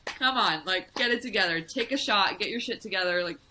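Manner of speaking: lightly voiced rough-edged inner coach; a hint of a trashy tough girl egging you on; trailer park Terry. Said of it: "trashy trailer park Terry kind of, like, girl".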